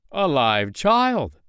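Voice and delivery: high, loud and slow cry of amazement; a stunned man finding a child; astonished cry. A narrator's reading. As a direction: gasp it out in disbelief. Man finds child in stove.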